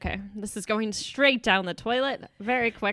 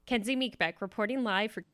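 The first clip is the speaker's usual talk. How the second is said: news reporter voice. Pretend. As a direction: play a reporter signing off live. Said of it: "how to talk like that".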